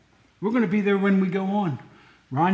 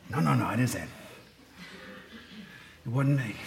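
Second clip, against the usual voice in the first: mock denial; 6 semitones lower, 7 dB quieter, faster than usual. Real, not acted. Joking denial after fire remark.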